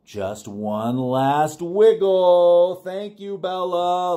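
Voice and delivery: note read. Acted. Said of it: "It says".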